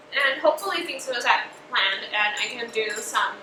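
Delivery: talking with a mouth full of food. Real, not acted. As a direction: speak through a mouthful. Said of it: "I'm talking with my mouth full".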